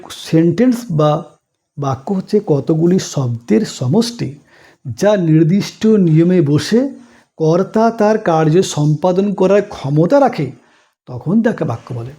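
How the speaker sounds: slow, deliberate definition for students; measured model recitation. Shown as a demonstration. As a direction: recite it slowly, phrase by phrase.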